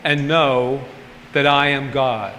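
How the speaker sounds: slow, reverent recital; unhurried, solemn scripture recital; scripture quote. Shown as a demonstration. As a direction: intone the verse slowly. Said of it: "this scripture that said".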